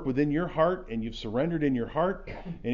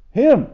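each word hit far higher and louder, with long pauses; emphatic command; 10 semitones higher, 13 dB louder than usual. Shown as a demonstration. Pastor driving home the command to forgive, word by word. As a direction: hammer "you", "must", "forgive" one by one. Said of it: "it was an emphatic".

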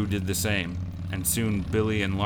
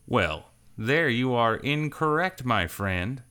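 slow, higher, amused correction; smug rider; 5 semitones higher, slower than usual. A narrator's reading. Rider tells Billy he is wrong, slow and amused. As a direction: savor correcting him.

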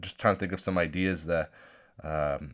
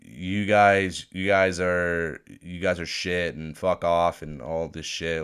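mock taunt; 6 dB louder, slower than usual. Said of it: "They're saying".

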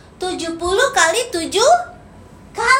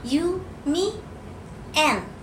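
whisper; 5 semitones lower, 7 dB quieter than usual. Retold or imitated. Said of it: "Ada yang berbisik".

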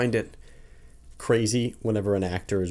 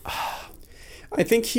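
whispering; 13 semitones higher, 3 dB quieter, much slower than usual. Real, not acted. Whispered, trailing off.

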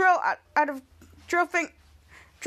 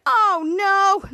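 higher, louder cry of dismay; alarmed cry; 4 semitones higher, 5 dB louder than usual. Retold or imitated. Elderly woman facing capture, alarmed. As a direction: act out a dramatic alarm.

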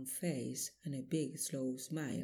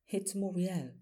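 a higher, pained cry of recognition; stunned grief; 5 semitones higher, 4 dB louder than usual. Acted. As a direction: say it as the truth sinks in. Husband recognises dead wife.

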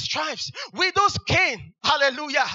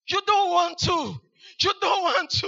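shouted warning; 3 semitones higher than usual. Shown as a demonstration.

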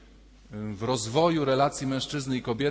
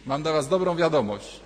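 louder, teasing announcement; mock good news; 6 dB louder than usual. Priest teasing newlyweds with mock good news, loud and playful. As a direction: play the cheerful herald of bad news.

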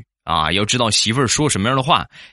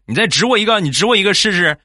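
higher, louder threatening challenge; angry threat; 10 semitones higher, 4 dB louder, faster than usual. Retold or imitated. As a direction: dare him to point again. Man threatens in a train fight.

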